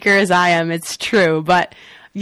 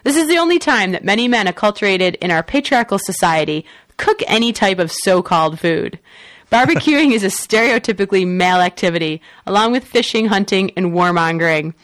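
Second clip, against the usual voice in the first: editorial newscaster read; news read. Acted. Reads the next news story.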